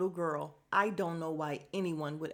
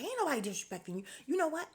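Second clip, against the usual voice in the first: a hint of a sassy country old lady; lightly voiced Southern granny snapping back; 3 semitones higher than usual. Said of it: "she turned real country and like a country old lady".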